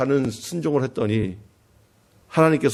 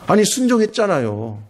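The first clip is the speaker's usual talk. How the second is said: a touch raised, protesting; mildly protesting prophet; 6 semitones higher than usual. Retold or imitated. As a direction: start the complaint a little higher. Elijah's complaint, first take.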